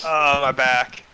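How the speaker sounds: laughing through pain. Acted. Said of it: "it hurts to laugh".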